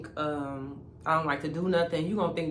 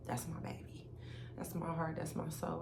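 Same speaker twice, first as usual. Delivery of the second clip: whispered tenderness; 14 dB quieter than usual. Real, not acted. Tender words about sister, whispered.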